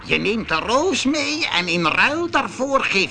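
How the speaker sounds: high, loud demanding beast; monster voice. A narrator's reading. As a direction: lay down the beast's price.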